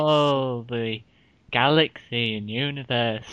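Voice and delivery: lightly voiced awestruck presenter; mock cosmic wonder, pausing between phrases; Brian Cox. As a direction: marvel at the heavens, unhurried. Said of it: "I could do his voice all day".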